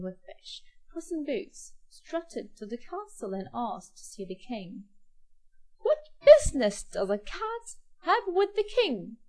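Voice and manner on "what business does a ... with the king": gatekeeper voice. Acted. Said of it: "asked the gatekeeper".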